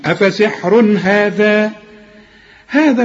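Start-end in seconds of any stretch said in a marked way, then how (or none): 0.0-1.7 أفسحر هذا slow, no nasal; تلاوة بطيئة بلا غنة; slow recitation. Shown as a demonstration. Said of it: "ما تغنش".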